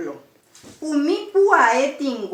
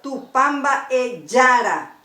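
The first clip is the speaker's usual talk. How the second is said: "Tupamba e yara" slow, stressing the first a of "yara"; slow demo, weight on YA in "yara"; stress on penultimate vowel. Shown as a demonstration. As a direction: spell out the accents in "Tupamba e yara" slowly. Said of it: "el acento tónico va en la penúltima vocal".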